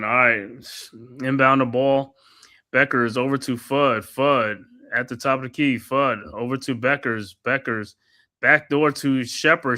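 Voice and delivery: steady courtside commentator calling each pass; play-by-play call. Acted. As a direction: narrate the possession like a broadcaster. Calls the game play-by-play.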